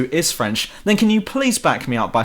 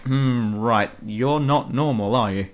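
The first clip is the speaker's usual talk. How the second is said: sceptical aside; 2 semitones lower, slower than usual. Retold or imitated. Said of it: "looks at the others like".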